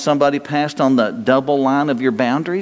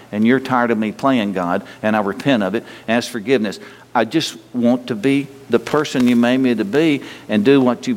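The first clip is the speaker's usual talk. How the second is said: spoken prayer. Acted. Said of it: "just name it to the Lord".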